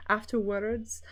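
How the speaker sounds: attempted Scottish "Afterwards"; careful stab at a Scottish accent. Shown as a demonstration. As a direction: try the word in a Scottish accent. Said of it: "very difficult word to say in Scottish".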